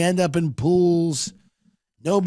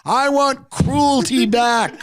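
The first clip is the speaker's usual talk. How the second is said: Rick rally speech; 8 semitones higher, slower than usual. Retold or imitated. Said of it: "People are just screaming".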